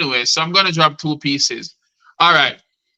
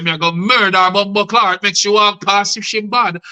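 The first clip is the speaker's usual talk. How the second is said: mildly raised, rhythmic angry threat; acted mad talk; 4 semitones higher than usual. Wronged woman threatens the helper, acted mad talk. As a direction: play her anger inside the verse. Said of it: "she start talk like she mad".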